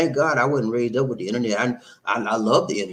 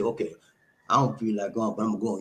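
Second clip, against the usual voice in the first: resigned but willing; 3 semitones lower, 4 dB quieter, faster than usual. Retold or imitated. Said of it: "but sometimes say".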